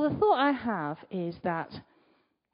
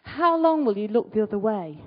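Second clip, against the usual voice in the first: said loudly; 6 dB louder than usual. Shown as a demonstration. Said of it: "You are allowed to say it loudly".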